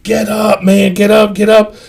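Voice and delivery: mock yelling to rouse a friend; imitated holler, held back in volume; retold scream. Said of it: "screaming at the top of my lungs".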